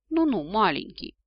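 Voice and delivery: encouraging. A narrator's reading. Descendant patting the despairing dragon, encouraging. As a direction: comfort him like a little one. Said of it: "Я ободряюще похлопала его".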